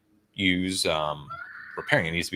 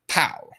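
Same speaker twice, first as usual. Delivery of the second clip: mimed impact; 8 semitones higher than usual. Shown as a demonstration. Imitates a sudden unlock effect.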